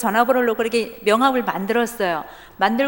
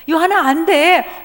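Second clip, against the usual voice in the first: loud, higher firm urging; insistent mother; 6 semitones higher, 6 dB louder than usual. Retold or imitated. Mother firmly urging her crying son to keep going. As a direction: push him hard not to give up.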